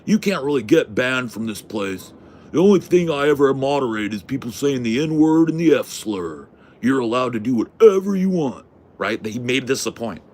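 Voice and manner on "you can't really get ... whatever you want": a hint of a drawling mod, a bit higher; lightly voiced hillbilly. Hillbilly mod boasting to the vlogger, lightly imitated. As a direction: lightly mimic the hillbilly laying down the rules. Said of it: "He'd been telling me all night".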